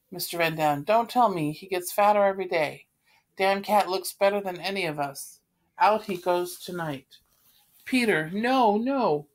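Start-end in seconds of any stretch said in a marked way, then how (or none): 0.8-7.2 angry. Acted. Van Daan rants about cat. 7.8-9.3 upset cry. Acted. Anne protests.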